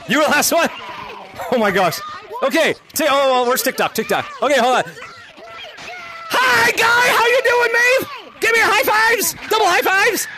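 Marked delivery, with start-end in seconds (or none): 6.3-10.3 high, excited shouted hello; excited greeting. Real, not acted. Streamer greeting a fan for high fives, excited. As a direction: greet with big high-five energy.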